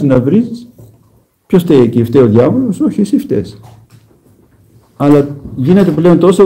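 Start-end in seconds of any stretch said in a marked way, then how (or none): 2.8-3.6 Όχι thrown out high, then εσύ φταίς dropping; a sudden high correction; emphatic no. Real, not acted. Preacher to the congregation, high emphatic Όχι. Preacher turns blame on listener.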